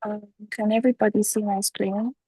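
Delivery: talking with a head cold; blocked nose, congested voice; stuffy nose. Real, not acted. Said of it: "I have a cold".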